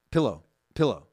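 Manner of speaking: "Pillow" with a short I; corrected pronunciation. Shown as a demonstration. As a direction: repeat "Pillow" with a clear I. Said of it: "Pillow or pillow?".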